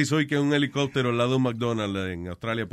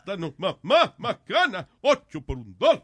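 laughing ad imitation; 4 semitones higher, 3 dB louder, slower than usual. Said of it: "no te acuerdas".

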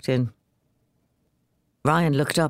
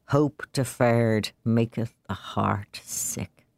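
slow, low and mournful; glum quote; 3 semitones lower, slower than usual. Acted. Jim answering the father with a glum proverb, slowly. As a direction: sigh out the proverb. Jim quoting scripture glumly.

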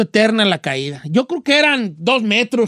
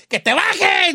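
high mock yell from below; brother yelling; 8 semitones higher, much slower than usual. Older brother yells at kid stuck in tree, high mock yell. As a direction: bark it up the tree at him. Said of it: "mi carnal me aventaba piedra".

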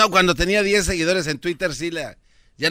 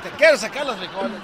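laughing repeat; 3 semitones higher, 3 dB quieter, faster than usual. Real, not acted. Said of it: "repeats host's line laughing".

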